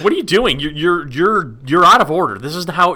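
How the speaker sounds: loud, high indignant \"what are you doing\"; indignant outburst. Retold or imitated. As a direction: play it like someone stole your seat. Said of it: "I'd be like".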